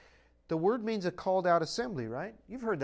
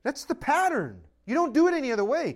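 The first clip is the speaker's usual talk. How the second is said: forceful preaching; 7 semitones higher, 6 dB louder than usual. Acted. Preacher insisting on the pattern.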